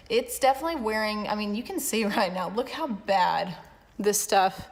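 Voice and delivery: talking while chewing gum. Real, not acted. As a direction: chew gum through the words. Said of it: "sorry, I'm chewing gum".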